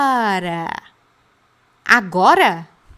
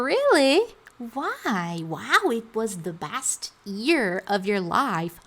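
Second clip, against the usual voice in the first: mock curious listener; slower than usual. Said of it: "A pessoa não perguntou".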